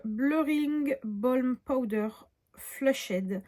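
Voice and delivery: English product name in a slow French accent. Real, not acted. Vlogger reads a makeup product name to viewers, French-accented English. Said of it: "faites pas attention à mon accent anglais".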